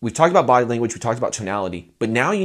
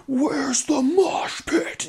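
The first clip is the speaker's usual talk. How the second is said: breathy high laughing whisper; whispered joke; much slower than usual. Retold or imitated. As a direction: tease in a whisper. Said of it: "people that are like".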